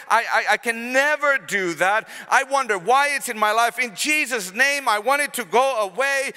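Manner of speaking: hammed-up despair at the obstacle; a complainer overwhelmed by the obstacle, mock wail; whining complainer. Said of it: "you're gonna say".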